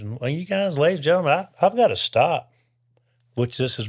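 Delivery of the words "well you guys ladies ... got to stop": preacher on the radio. Retold or imitated. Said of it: "he says".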